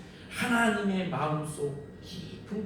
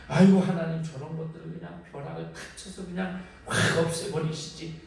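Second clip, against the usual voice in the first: exasperated plea. Retold or imitated. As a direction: burst out to God, then grumble. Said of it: "이런 생각 들잖아요". (하나님께 하소연하듯 외치는 아이고)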